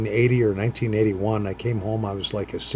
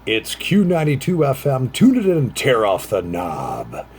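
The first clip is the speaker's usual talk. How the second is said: radio station jingle; 3 semitones higher, 3 dB louder than usual. Retold or imitated. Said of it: "their handle was".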